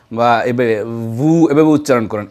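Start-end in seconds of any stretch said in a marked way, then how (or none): 1.2-1.5 lip to teeth on ভু, not rounded lips; wrong v sound. Shown as a demonstration. Teacher shows viewers the incorrect ভু. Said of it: "এই উচ্চারণটিও সঠিক নয়".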